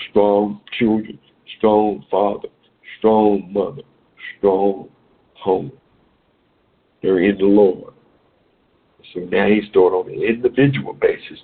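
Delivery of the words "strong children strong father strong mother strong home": each "strong" pressed hard, the noun after it lighter; stress on strong. Shown as a demonstration. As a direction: lean on "strong" before each word: "strong children, strong father, strong mother, strong home". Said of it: "I'll put the emphasis on".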